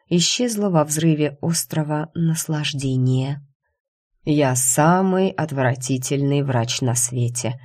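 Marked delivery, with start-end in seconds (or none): none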